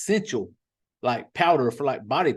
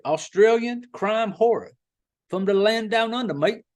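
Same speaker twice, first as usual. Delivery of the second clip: a hammed-up, higher Aussie twang, slowed down; mock Australian accent; 5 semitones higher than usual. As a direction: play a redneck trying out an Australian accent. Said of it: "that's what it would sound like".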